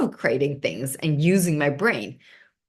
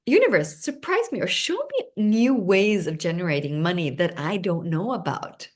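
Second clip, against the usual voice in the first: asking the universe. Shown as a demonstration. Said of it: "So I would start asking".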